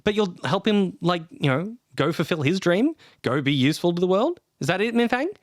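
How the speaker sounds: high, mocking challenge; sarcastic jab. The speaker sarcastically challenging Minfang. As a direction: needle him with sarcasm.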